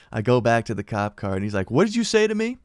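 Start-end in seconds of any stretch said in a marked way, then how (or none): 1.7-2.6 angry confrontation. Retold or imitated. Cop confronting the mouthy teen, high and angry. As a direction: rise up in outrage at the kid.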